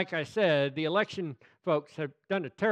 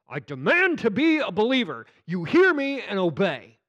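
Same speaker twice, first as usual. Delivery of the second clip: loud, commanding bluster; hammed-up bossy order; mock imperious demand; 3 semitones higher, 7 dB louder than usual. Acting someone demanding salvation.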